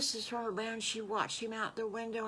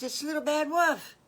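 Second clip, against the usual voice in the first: high, loud announcement; excited piglet; 8 semitones higher, 7 dB louder than usual. Acted. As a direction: call out who is at the door. Piglet announces visitor at door.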